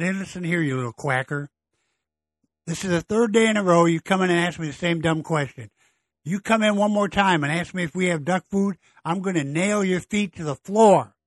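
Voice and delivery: mock telling off, building to a near shout; fed-up bartender. Bartender fed up, threatening the duck, half-shouting. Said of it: "Bartender's now had enough".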